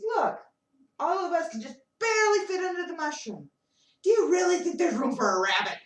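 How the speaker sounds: exasperated animals. Acted. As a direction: shoo the fox off with a big protest. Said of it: "He says".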